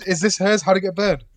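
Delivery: hammed-up desperate Nicolas Cage, laughing through it; mock shouting. Host quotes the actor, escalating into a laughing wail. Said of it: "It's literally just goes".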